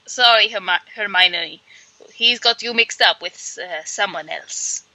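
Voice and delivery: lightly attempted Eastern European accent, trailing off; bad Eastern European accent. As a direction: fumble through a poor Eastern European accent. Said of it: "Albus with a bad accent".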